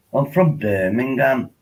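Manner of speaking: lightly put-on Brummie accent. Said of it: "Jace, he talks like this".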